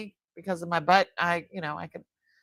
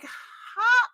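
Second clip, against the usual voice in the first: exasperated mock complaint to husband. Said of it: "I said to my husband".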